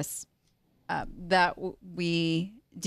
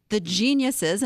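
sarcastic. Real, not acted. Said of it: "I say that with full sarcasm".

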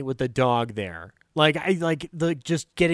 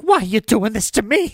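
high, louder pleading whine; whining Lou; 7 semitones higher, 5 dB louder than usual. Retold or imitated. Lou pleading with the talking dog, high and whiny. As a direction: beg the talking dog to stop. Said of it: "he goes like".

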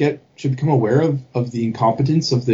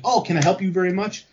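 higher, playfully eager mock offer; jovial salesman; 5 semitones higher than usual. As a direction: imitate a friendly clerk offering help. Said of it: "a jovial".

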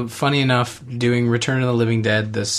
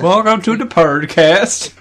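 put-on Swedish accent; 6 semitones higher, 4 dB louder, slower than usual. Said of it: "Swedish, uh, accent I've ever done".

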